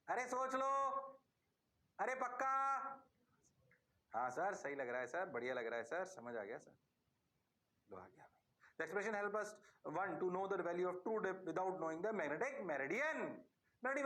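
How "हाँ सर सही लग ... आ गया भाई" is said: student reply. Pretend. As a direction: play a meek student saying yes sir. Teacher voices eager students.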